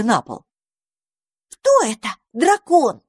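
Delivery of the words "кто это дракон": very high, timid question; cautious little squirrels asking; wary. A narrator's reading. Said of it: "опасливо глядя на домовёнка".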